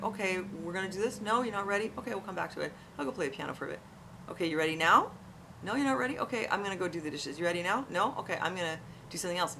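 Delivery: light, casual, gently lilting offer; imitating a calm, no-pressure parent. Mother to son who avoids his work, calmly. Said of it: "but very calmly".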